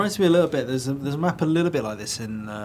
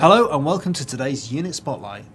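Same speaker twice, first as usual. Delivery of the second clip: mock show host; 5 dB louder than usual. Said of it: "I can do a unit spotlight".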